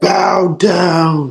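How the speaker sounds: mock very high hyped yell, stretched and drawn out. Retelling own reaction to a wrestling kick-out: imitating own screaming. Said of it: "I was screaming, like".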